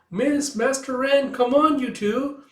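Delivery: high, slow call across a distance. Acted. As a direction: call them over, high and drawn out. Old Tooth and Kippa calling back.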